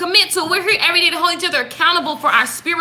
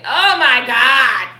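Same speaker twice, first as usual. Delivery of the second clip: mock disbelief; slower than usual. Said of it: "you be like".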